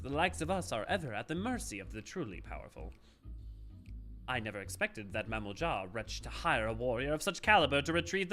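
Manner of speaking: elevated, hammy villain monologue; twee villain voice. Acted. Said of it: "the elevated, like, twee villain voice".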